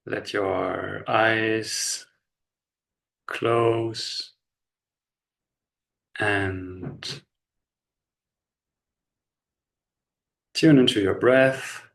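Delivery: slow, unhurried body-scan guidance with long pauses; measured meditation voice, leaving space after each instruction; guided meditation. Real, not acted. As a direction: guide them gently into relaxation, phrase by phrase.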